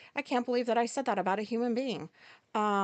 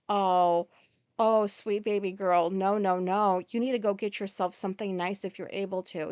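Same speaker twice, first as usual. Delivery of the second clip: doting cashier; 2 semitones lower than usual. Retold or imitated. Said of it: "He's like".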